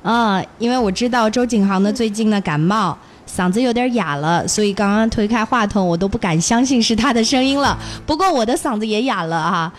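hoarse from a cold; raspy sore throat. Real, not acted.

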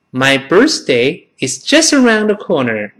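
careful repeat-after-me English reading; model sentence. Shown as a demonstration. Teacher gives class a sentence to imitate, clear model reading. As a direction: read it connected, 'around the corner' run together. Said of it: "完整的跟老师模仿一遍".

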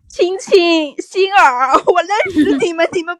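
loud call to the audience. Real, not acted. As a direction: call them out of hiding. Calling out to silent viewers.

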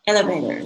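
"Elevator" with the final T O R fully sounded; "Elevator", ending spelled out in sound; full ending demo. Shown as a demonstration. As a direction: say every syllable of "Elevator" clearly to the end. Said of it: "那个T O R一定要念出来".

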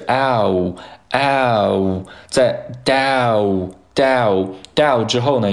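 "ow" as a lone diphthong, drawn out; isolated vowel. Shown as a demonstration. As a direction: glide slowly through "ow". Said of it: "它首先是".

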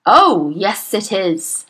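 loud overbearing shout. Acted. Headmistress shouts down the teacher, loud. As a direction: shout her down. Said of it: "shouted Miss Trunchbull".

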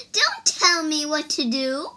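high, loud defiant retort; scornful after laughing. A narrator's reading. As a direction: brush off the order, loud and high. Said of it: "The woman laughed".

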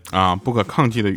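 normal talking voice

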